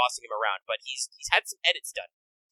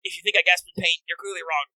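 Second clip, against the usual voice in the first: higher, proudly insisting it doesn't hurt; mock tough denial; 5 semitones higher than usual. Friend playing a hurt king, hammed-up bravado. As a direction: fake being too cool to hurt.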